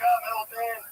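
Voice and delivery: wistful fake-cool storyteller; mock sad son. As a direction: play the abandoned son deadpan. Son voicing abandoned-kid lament.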